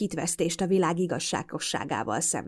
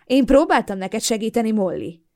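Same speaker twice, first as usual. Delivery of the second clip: pitying, with a small smile; condescending half-smile; 4 semitones higher, 6 dB louder than usual. Acted. Boyfriend condescends to Molly with a pitying half-smile. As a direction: talk down to her kindly. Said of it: "lesajnáló kis félmosollyal".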